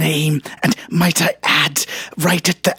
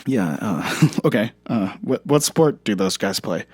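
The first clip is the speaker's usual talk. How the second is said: deep Herzog impression; 9 semitones lower, 5 dB quieter than usual. Deep Herzog voice while mocking the claim. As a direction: sound like a solemn German director.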